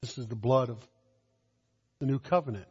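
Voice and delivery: low, soft quotation of sacred words; still small voice. Acted. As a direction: speak it quietly, as a solemn reminder. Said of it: "in that still small voice".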